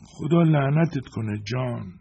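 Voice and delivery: put-on feeble old man cursing, high and slow; a frail curse dragged out slowly; weak, barely audible voice. Freed old man curses John, weak and slow.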